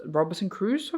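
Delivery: "Crusoe" said like cruise, without the final oh. Shown as a demonstration. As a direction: cut "Crusoe" to one syllable, "croos". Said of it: "Will you pronounce it".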